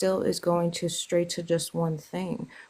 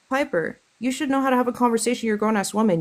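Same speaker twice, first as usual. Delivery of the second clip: angry; 4 semitones higher, 4 dB louder, faster than usual. Real, not acted. Scolding Piper for interrupting.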